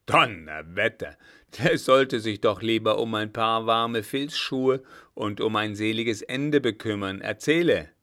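oath first, blustering commander; swear, grumble, then order a report; indignant old marshal. Acted. Blücher indignant at Bonaparte's courting. (empört wetternder alter Feldmarschall)

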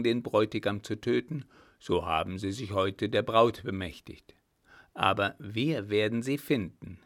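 blunt military man pressing his case; blunt old commander. Acted. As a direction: lay it out firmly and scornfully.

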